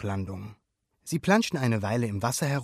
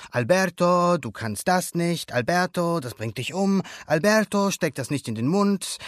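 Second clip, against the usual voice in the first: raised, scolding mock nag; nagging inner voice; 5 semitones higher, 4 dB louder than usual. Alberto imitates his own Bruno, nagging. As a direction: mimic a fretful, warning voice.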